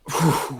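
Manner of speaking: long breathy blow of air; imitated smoking exhale. Telling friends about driving with windows down, imitated exhale. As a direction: blow out an imagined puff of weed smoke.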